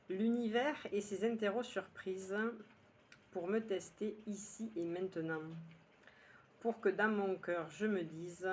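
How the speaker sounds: measured poem recital with pauses between lines; unhurried phrase-by-phrase recitation; poem reading. Acted. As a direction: read your poem line by line, letting each one settle. Rereads the poem a third time.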